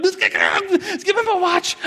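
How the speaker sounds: put-on very high, slow, stretched child whine; kid pleading. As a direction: drag it out like a desperate little boy. Kid demanding his stolen watch.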